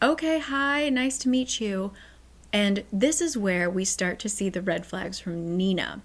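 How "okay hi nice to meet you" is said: higher-pitched, imitated polite hello; awkward greeting. Husband greeting the new maid, in a high polite voice. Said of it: "he was just sort of like".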